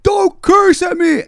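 very high, slow screech; loud, drawn-out mock outrage; homeless man impression. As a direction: scold in a hammed-up wail. Homeless man scolds, imitated.

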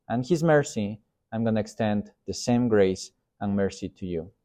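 a hint of a humble peacemaker, soft and steady; gentle peacemaker. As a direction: forgive them quietly and kindly. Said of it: "The peacemaker goes".

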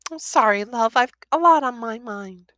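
mother apologises to son, high; tearful mum. A narrator's reading.

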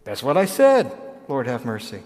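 lightly acted pointed retort; a hint of cheeky defiance; mock knowing reply. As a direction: say it with a knowing jab. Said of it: "retort in acted exchange".

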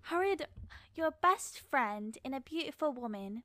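put-on earnest amateur English accent; attempted British accent. Redoing the Bridgerton line for co-host, British accent. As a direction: prove you can do British. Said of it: "my English accent isn't that bad".

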